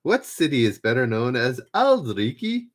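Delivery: badly faked Edinburgh local accent, lifting at the end; clumsy stab at Edinburgh Scots; terrible Edinburgh accent. Shown as a demonstration. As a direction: try it like an Edinburgh local and botch it. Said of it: "Oh, that's terrible".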